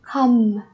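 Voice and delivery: "Come" for comb, finishing on a hummed m; silent b. Shown as a demonstration. Teacher showing students the silent letter, "Come" ending on m. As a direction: drop the b at the end of "Come" (comb). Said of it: "cái chữ bờ chúng ta không đọc".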